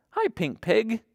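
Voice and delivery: very high-pitched little hello; cutesy greeting. Pretend. Storyteller greeting the felt dog, cutesy greeting. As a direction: greet a toy in a tiny high voice. Greeting a toy animal for children.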